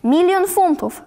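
high-pitched excited call; a yell acted by pitch alone; mild mock yell. A narrator's reading. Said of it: "wrzasnął ordynalny Olo". (udawany, wysoki wrzask)

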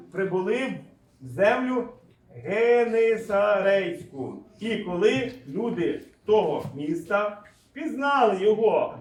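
slow Bible reading, strong then easing down; scripture reading. Acted. Preacher reading of the sick brought to Jesus, slow solemn reading. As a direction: read it out phrase by phrase, deliberately.

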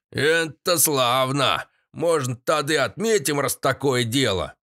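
put-on old man proposing a toast; lightly voiced grandpa. A narrator's reading. Grandpa rejoices.

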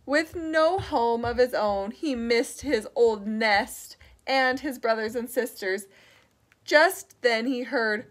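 low, measured storybook narration; understated storytime reading; reading to children. A narrator's reading. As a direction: tell the lonely part to little listeners.

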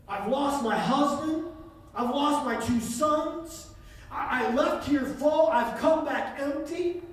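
Naomi's grief. Acted. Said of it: "She said".

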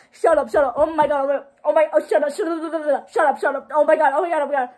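high, loud disbelieving babble; overwhelmed excitement. Real, not acted. Overwhelmed reaction to the song.

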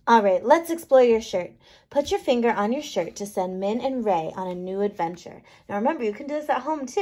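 ordinary delivery

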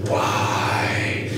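voiceless, drawn-out whisper; whispered question. Acted. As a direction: breathe the question back in secret. Achilles answers in the whispered exchange.

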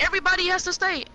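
high, loud mock Trump order. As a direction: bark it like a president on TV. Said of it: "Donald Trump might be like".

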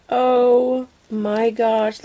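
slow, drawn-out exclamation; amazed and thrilled; excited awe. Real, not acted. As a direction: stretch it out in delight. Gasps at a new item.

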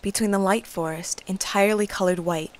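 lightly voiced storybook narration; story narration. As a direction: paint the scene like a fairy tale. Narrates the scene over music.

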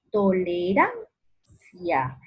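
"tolerancia" slow as toleRAN, pause, cia; stress on RAN. Shown as a demonstration. Teacher showing the tonic, stressed RAN in split "tolerancia". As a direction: lift RAN in "tolerancia" and stop. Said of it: "En la ra".

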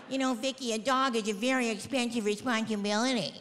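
a hint of a patronizing clerk lecturing; preachy shelter worker. Shelter people refusing Vicki the dog, patronizing. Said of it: "they're like".

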